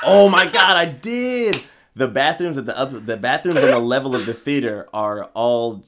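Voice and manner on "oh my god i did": high, loud burst of recognition; real outburst at a sudden memory; amused realization. Real, not acted. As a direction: blurt it out, pitched way up. Suddenly recalls wrong bathroom story.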